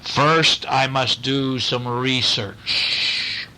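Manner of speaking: slow, deliberate moose voice; a measured, unhurried detective moose; blue moose. Acted. Blue moose answering the boy, slow and deliberate.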